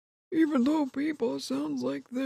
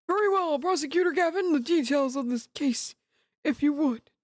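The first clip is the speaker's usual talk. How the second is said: put-on higher old judge voice; 4 semitones higher than usual. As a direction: play the stately old judge. Voices judge in Ace Attorney.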